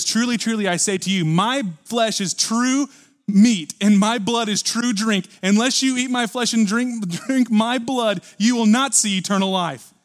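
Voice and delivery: high, loud, slow thundering proclamation of Unless you eat my flesh; hammered, heavy words, each one driven home; preached loud quote. Retold or imitated. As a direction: boom it out like a prophet warning the crowd. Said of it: "He says".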